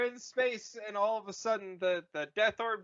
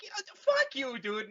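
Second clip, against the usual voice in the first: mock Vader; 14 semitones higher than usual. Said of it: "Vader's like".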